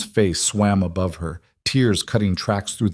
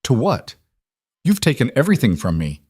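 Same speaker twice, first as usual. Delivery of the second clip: bitter; 4 semitones higher than usual. Acted. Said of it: "Sung Ho laughed bitterly".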